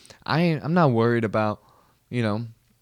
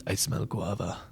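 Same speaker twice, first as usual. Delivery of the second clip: bad Russian accent; 2 semitones lower, 8 dB quieter than usual. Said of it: "I can't do Russian".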